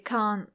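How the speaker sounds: can't said without its final T; dropped T. Shown as a demonstration. Teacher demonstrating her everyday can't to learners. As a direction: swallow the T at the end of can't. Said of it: "I don't usually pronounce the T".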